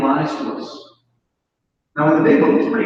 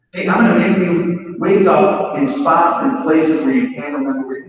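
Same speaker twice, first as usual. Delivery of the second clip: voice of alcohol; 3 dB louder than usual. Retold or imitated. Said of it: "never said that to me".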